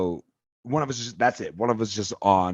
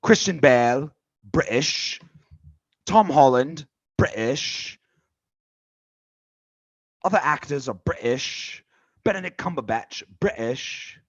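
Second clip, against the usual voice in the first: put-on British accent. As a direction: list the British stars with pride in a British accent. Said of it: "You sound like a dirty redcoat".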